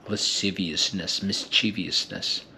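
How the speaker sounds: whisper-savor Lasciviousness like a sweet; savoring softly. Shown as a demonstration. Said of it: "They feel so good in the mouth".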